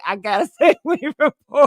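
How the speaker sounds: fast, laughing through the quote; mocking quote. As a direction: tease him, cracking up mid-line. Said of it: "Then you're gonna say".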